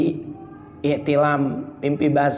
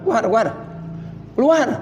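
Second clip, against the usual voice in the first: raised voice shooing guests out; ordering out; 6 semitones higher, faster than usual. Retold or imitated. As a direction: shoo everyone out, sharply. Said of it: "tamu suruh keluar semua". (suruh semua keluar, suara keras)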